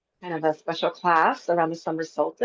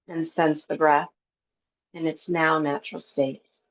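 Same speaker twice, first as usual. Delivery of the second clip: calm meditation teacher with long pauses; guided breath work; 2 semitones lower than usual. Real, not acted. Yoga teacher settling a class into breath work, calm guided relaxation. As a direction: guide them gently into stillness, unhurried.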